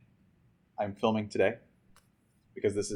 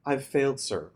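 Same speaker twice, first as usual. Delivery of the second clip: mild sob; 4 semitones higher than usual. Acted. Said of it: "I sobbed as I made my report".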